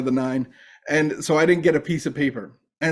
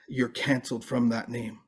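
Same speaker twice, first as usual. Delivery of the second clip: accusing voice; 4 semitones lower, 9 dB quieter than usual. Retold or imitated. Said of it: "I heard the voice of the enemy".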